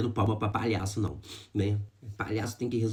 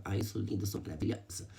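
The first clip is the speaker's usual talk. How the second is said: soft, breathy lower mockery of a vain doll; mocking vain doll; 3 semitones lower, 7 dB quieter than usual. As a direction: sneer at her vanity in a whispered coo. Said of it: "A bonequinha, ela fica". (imitação debochada de bonequinha vaidosa, sussurrada)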